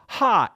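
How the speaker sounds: sharp high puff of air; mock airy gasp. Imitating what comes out in Arizona, a sharp airy burst. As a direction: spit out a burst of air like a hiss.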